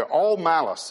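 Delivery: "all" pushed a bit harder; stress on all. Shown as a demonstration. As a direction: lean on "all" before "malice". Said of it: "It doesn't just say malice".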